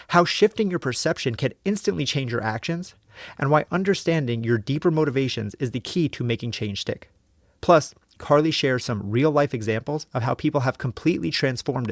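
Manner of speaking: polished, measured episode introduction; podcast intro read. Acted. Host introducing the episode to listeners, scripted podcast read. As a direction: read it as a scripted show opener.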